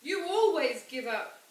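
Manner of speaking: put-on child shouting at her father in anger. A narrator's reading. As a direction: yell it at him. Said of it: "I shouted".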